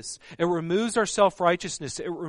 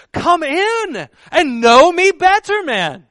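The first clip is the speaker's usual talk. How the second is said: put-on slow, much higher and louder booming English accent; Ghost of Christmas Present accent; 10 semitones higher, 11 dB louder, slower than usual. Jesus inviting those standing outside, in a slow booming Christmas-ghost accent. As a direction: stretch out a grand jolly Christmas-ghost invitation. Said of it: "I'm using the accent from".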